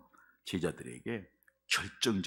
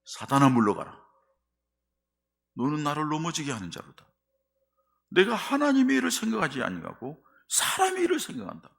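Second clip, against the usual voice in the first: loud, high, forceful rebuke; sharp rebuke; 6 semitones higher, 6 dB louder than usual. Acted. Jesus rebuking Peter in a loud, high, forceful voice. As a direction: hurl the rebuke at him with full force. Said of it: "예수님이 뭐라고 그래요?".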